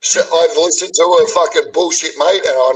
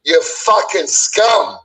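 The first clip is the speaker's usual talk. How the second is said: slow, contemptuous spitting of insults; seething insults; 4 semitones higher than usual. Real, not acted. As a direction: drag each insult out with contempt. Abusing Wazzy, heated argument.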